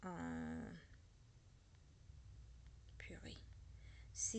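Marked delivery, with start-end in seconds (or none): 3.0-3.4 whisper. Real, not acted. Muttered exasperation.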